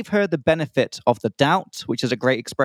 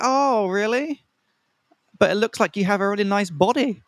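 imitating the flirty date; 7 semitones higher than usual. Mimicking the date urging him into the pool, flirty. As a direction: coax him playfully, much higher.

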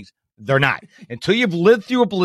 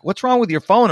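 mock-baffled question, pitched up; freaked-out guests; 6 semitones higher than usual. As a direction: imitate puzzled guests, higher pitch. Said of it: "it really freaks people out".

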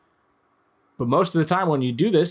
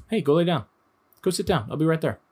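friendly command; 4 semitones higher than usual. Retold or imitated.

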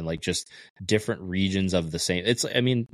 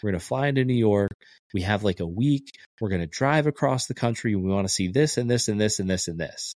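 mock the girls gushing over their road trip plan; excited Irish girls; 5 semitones higher than usual. Imitating Irish girls planning a US road trip, eager and high. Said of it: "they were like".

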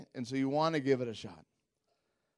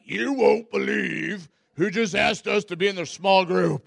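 exasperated news; 5 semitones higher, 8 dB louder than usual. Retold or imitated. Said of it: "called my wife".

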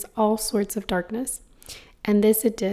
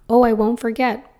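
louder, earnest promise; 5 dB louder than usual. Acted. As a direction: promise it wholeheartedly. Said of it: "promised the little soul".

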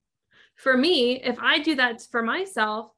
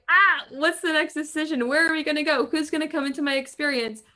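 excited; 3 semitones higher, 3 dB louder than usual. Retold or imitated. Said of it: "Feels like".

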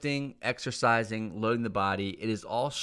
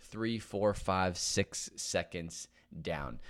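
slow counting; slower than usual. Shown as a demonstration. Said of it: "It's slow and controlled".

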